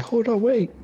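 squeaky high panicked voice; high character voice. Retold or imitated. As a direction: voice a frightened little creature. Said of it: "It's like".

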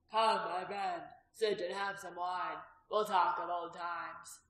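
slow, expansive host voice; grand welcome. Acted. Innkeeper showing off to patrons, slow grand welcome. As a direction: draw it out like a generous host.

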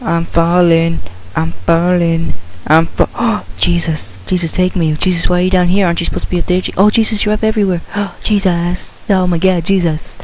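high-pitched, gasping mock terror; high, breath-catching pleas; dramatic falling panic. Falling in game, calling on Jesus.

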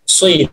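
"sui" with a heavy, rounded s gliding into i; emphatic s sound. Shown as a demonstration. Teacher showing how sad with kasrah reads, emphatic s pronunciation. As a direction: say "sui" with the thick Arabic sad. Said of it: "di kasroh ini".

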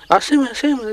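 high, pushy mock of the cop; a hammed-up policeman insisting; mimicking the cop. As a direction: ape the cop demanding it. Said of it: "dice así de uno".

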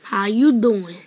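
low smirking "How you doing?". Shown as a demonstration. Recalling the smirk intro for commenters, low and smug. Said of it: "if you want the last one, like".

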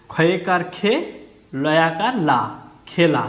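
spelled syllable by syllable, খে, লা, then খেলা; syllables sounded separately. Shown as a demonstration. Teacher showing pupils each vowel sign sounded separately, খে and লা apart. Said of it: "এটাকেও আলাদা করে বলবো".

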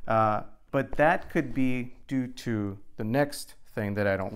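muffled through helmet chin bar; speaking inside closed helmet. Real, not acted. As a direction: voice enclosed by full-face helmet. Seen 1: Full-face helmet, chin bar closed, worn throughout the labelled words.

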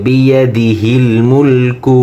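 slow "বিয়াদিহিল মুলকু" with a full, heavy h. Shown as a demonstration. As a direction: give the "হি" in "বিয়াদিহিল" a thick h. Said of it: "হা মোটা হবে".

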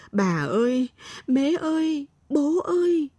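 high, scared cries for family; a lost child crying out in the dark forest; frightened calling out. A narrator's reading. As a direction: call out for help, lost and afraid.

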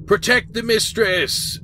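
high, drawn-out rallying cry; battle cry. Acted. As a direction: cry out slowly to rally the defenders. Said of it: "a cry of".

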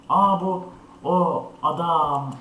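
slow, loud startled gasp of recognition. Real, not acted. Spotting the killer in the game, slow loud startled. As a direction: drag it out as the killer appears. Spots the monster man in game.

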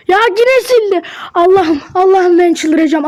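venting at the screen in disbelief; frustrated outburst. Real, not acted. Account deleted again, losing it. (isyan eden öfkeli çıkış)

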